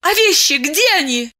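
high, insistent repeated question; a woman stubbornly repeating her question; stubborn insistence. Acted. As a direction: keep pressing the point. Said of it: "упрямо твердила".

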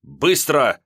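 громко и резко; бросить коротко, как приказ; отрывисто. A narrator's reading. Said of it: "отрывисто бросил Семёнов". (Семёнов резко торопит вора)

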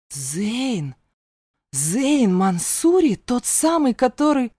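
rising, loud stunned recognition; stunned gasp. A narrator's reading. The mentor, shocked, recognises Zane Mansuri. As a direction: gasp as it sinks in who he is. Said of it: "охнул и отшатнулся".

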